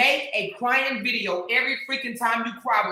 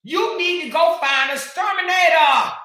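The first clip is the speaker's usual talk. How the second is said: loud, higher jeering; taunting shout; 5 semitones higher, 4 dB louder than usual. Real, not acted. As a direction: yell it out to mock her.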